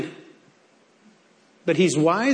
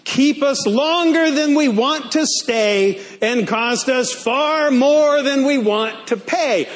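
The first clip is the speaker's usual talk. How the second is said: reading aloud together; 5 semitones higher than usual. Real, not acted. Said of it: "Read it with me".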